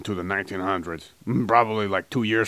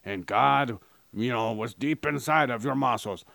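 mock ad read; 4 dB quieter than usual. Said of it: "this is how my advertisements would go".

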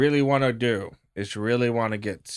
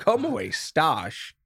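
Australian accent; 4 semitones higher, much slower than usual. Shown as a demonstration. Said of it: "I was trying to do an Australian accent".

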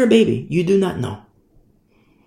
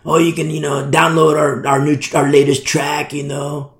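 sustained, even-toned worship leader impression; rock star voice; 4 semitones lower than usual. Worship leader plugs the latest track, rock star voice. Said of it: "his rock star voice".

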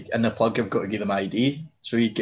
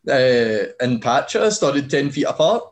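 higher and louder, stoked; excited disbelief; 6 semitones higher, 4 dB louder than usual. Retold or imitated. Telling Will he was at the same gig, higher and louder. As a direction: blurt it out like you can't believe it. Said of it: "I was like".

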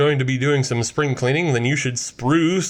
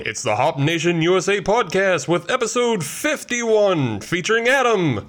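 ringmaster; 3 semitones higher than usual. Acted. Podcast intro, circus-style announcement.

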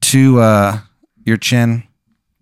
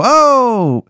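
high mock reply; 11 semitones higher, much slower than usual. Player's relieved reply voiced.

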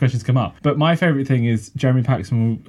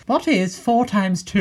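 high, slow, measured question reader; Angela Rippon; 8 semitones higher, slower than usual. Retold or imitated. Off-screen voice reading the quiz question, slow impression. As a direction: read it out deliberately in a raised voice. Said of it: "you'll hear the voice of Angela Rippon going".

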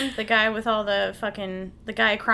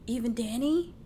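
put-on Boston accent; 4 semitones higher, slower than usual. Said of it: "in his little Boston accent".

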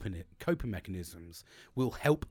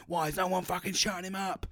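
raised pitch, an irritated snap at the household; exasperated outburst; 7 semitones higher than usual. Retold or imitated. Speaker re-enacting snapping at family over the barking dog, exasperated. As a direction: re-enact losing patience, voice jumping higher.

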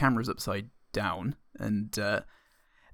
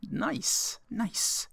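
whisper; 12 semitones higher, 4 dB quieter than usual. Real, not acted. Whispered aside during clip.

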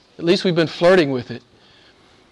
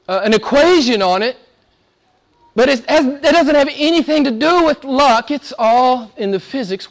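higher-pitched, emphatic sermon delivery; preaching; 8 semitones higher, 3 dB louder than usual. Real, not acted. Preaches with rising force.

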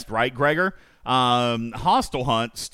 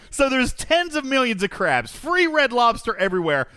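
incredulous; 10 semitones higher than usual. Real, not acted. Host shocked crabs taste bad.

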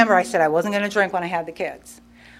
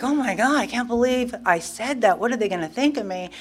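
mock dismay; 4 semitones higher than usual. Replays dismay at own words.

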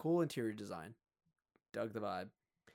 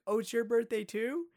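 mock older lady surprise; 12 semitones higher, 5 dB louder than usual. Older woman voiced in story.

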